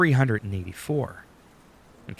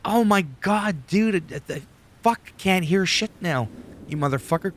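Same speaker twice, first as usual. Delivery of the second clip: high-pitched mock outrage; hammed-up indignant complaint; exasperated listener; 8 semitones higher than usual. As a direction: act out an aggrieved, deafened listener. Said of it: "And you're like".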